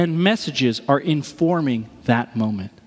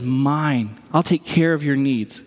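tender; 5 semitones lower than usual. Retold or imitated. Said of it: "and says".

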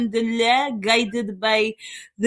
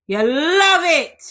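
teasing; 6 semitones higher, 5 dB louder, slower than usual. Real, not acted. Teasing listeners about marriage talk.

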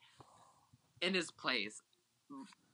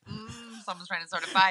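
suspicious; 2 semitones higher than usual. Retold or imitated. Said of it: "I was like".

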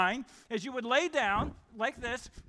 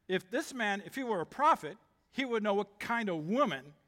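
condescending. Acted. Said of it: "Can you hear that intonation in his voice?".

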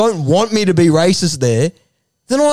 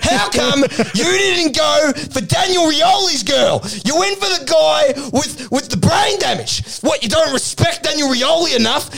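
mock angry footy coach; 6 semitones higher than usual. Retold Ducks confronting Rance.

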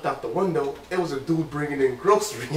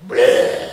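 mock vomit sound; 7 dB louder than usual. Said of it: "Like vomit".

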